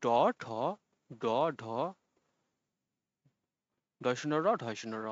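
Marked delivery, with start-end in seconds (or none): 0.0-1.6 "ট, ঠ, ড, ঢ" with tongue tip up on the palate; retroflex consonants. Shown as a demonstration. Teacher demonstrates for class, "ট, ঠ, ড, ঢ" as retroflex sounds. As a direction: sound out "ট, ঠ, ড, ঢ" separately, tongue curled up. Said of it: "মূর্ধার সঙ্গে লেগে যায়".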